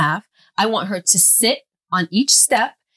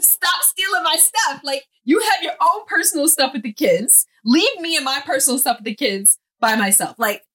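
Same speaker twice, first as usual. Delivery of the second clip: annoyed complaint; 6 semitones higher than usual. Retold or imitated. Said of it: "And I'll be like".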